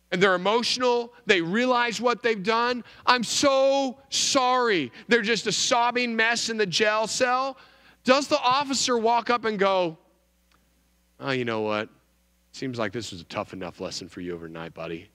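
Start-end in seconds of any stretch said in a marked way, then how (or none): 3.0-4.9 slow, higher, drawn-out "I'm so sorry"; imitating tearful apology. Sobbing drunk driver repeats. 11.2-15.1 much lower, softer, fast, easygoing cop; mock lenient officer. Officer voiced letting him go.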